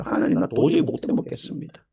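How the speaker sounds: 하나님께 떼쓰는 엘리야, 처음엔 속삭이듯 하다가 높아지며; a worn-out prophet pleading, petulant and spent; whining Elijah. Retold or imitated. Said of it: "엘리야가 막 생떼를 쓰거든요". (지친 예언자가 생떼 쓰듯 투덜대며)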